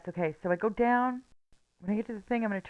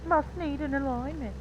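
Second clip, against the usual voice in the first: higher, slow put-on voice for "Must need an alignment"; silly put-on voice; 6 semitones higher, 3 dB quieter than usual. Gamer redoing her steering joke, in a higher, slow silly voice. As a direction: redo the line slowly in a goofy character voice.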